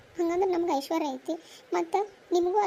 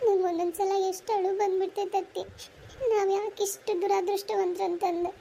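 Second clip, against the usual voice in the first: on the verge of crying; acted tearful self-pity; 3 semitones higher than usual. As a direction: lament it through welling tears. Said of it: "ಹಂಗೆಲ್ಲ ಅಳಬಾರ್ದವ".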